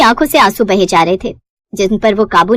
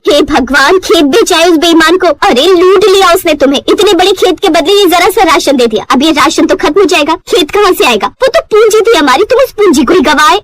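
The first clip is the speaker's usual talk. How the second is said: higher and louder, lamenting; wife lamenting the sold field, higher and louder; despairing wail; 5 semitones higher, 3 dB louder than usual. Acted. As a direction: cry out that the field is lost.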